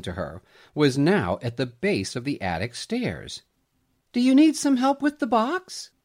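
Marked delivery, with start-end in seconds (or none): 4.1-5.9 knowingly. A narrator's reading. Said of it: "the voice asked knowingly".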